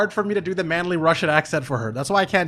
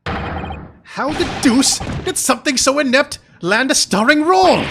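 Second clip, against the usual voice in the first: higher, louder, slow indignant British gentleman; outraged exclamation; 9 semitones higher, 6 dB louder than usual. Acted. Gentleman scoffing at the useless snake, loud and slow. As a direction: splutter it out in slow disbelief.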